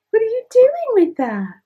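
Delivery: high, loud, sing-song question to the dog; excited dog talk. Real, not acted. Owner teasing her dog over a toy, high and loud. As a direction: tease the puppy playfully.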